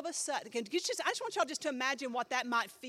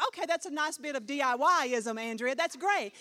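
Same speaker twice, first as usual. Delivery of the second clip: mock polite praise; 2 semitones higher, 7 dB louder than usual. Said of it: "you're like".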